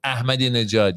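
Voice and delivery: Ahmadinejad said as "Ah-madi-ne-jad"; pronunciation demo. Shown as a demonstration. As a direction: say Ahmadinejad with an audible h after the first vowel. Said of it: "used to help Americans pronounce".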